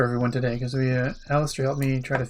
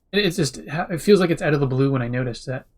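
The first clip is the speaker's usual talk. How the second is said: sipping hot tea; 4 dB louder than usual. Real, not acted. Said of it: "Sorry, sipping tea".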